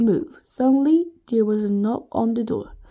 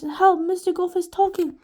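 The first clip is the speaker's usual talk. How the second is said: higher-pitched, mild cry for help; shouting; 6 semitones higher, 4 dB louder than usual. A narrator's reading. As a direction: call out a warning, not full force. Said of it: "shouted Alice".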